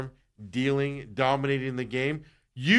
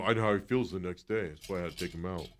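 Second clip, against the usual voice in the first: mocking Torey; 7 semitones lower, 5 dB quieter than usual. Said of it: "I'm surprised Torey didn't go".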